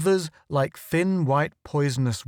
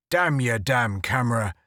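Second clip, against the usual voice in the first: mild yell. Acted. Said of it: "yelled Monaghan".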